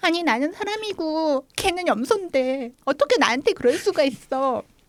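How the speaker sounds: high, play-acted crying through tears. Recalling protesting to the farm owner after a goat trampled her: retelling a crying protest. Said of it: "막 울면서".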